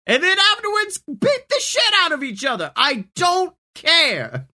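fed-up, rising exasperation; exasperated rant. Acted. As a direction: rant at them, totally done. Character scolds two queens.

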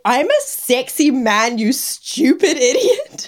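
slow, hammed-up huff rising into laughter; mock indignant. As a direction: imitate an offended man, cracking up. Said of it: "he was so mad".

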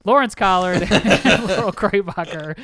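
names broken by a laugh; laughing through names. Real, not acted. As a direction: giggle mid-introduction. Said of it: "repeats the names".

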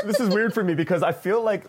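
laughing through the words; a little embarrassed chuckle while answering; half-laughing, self-conscious; nervous laugh. Real, not acted. Panelist laughs nervously starting answer.

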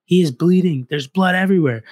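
mother bursting into the garage, high and loud; mom yelling. Retold or imitated. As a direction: play the furious mom bursting in, shrill and high. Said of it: "She's like".

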